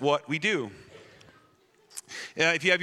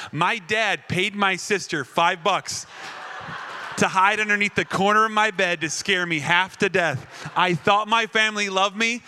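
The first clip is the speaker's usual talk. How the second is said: mock outrage; 4 semitones higher, 4 dB louder than usual. Outraged retelling of prank.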